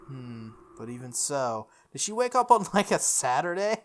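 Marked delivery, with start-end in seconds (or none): 1.9-3.8 incredulous. Real, not acted. Incredulous aside about character.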